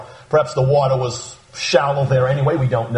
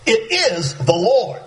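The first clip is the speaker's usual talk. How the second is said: matter-of-fact; 5 semitones higher, slower than usual. Retold or imitated. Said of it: "John says very matter-of-factly".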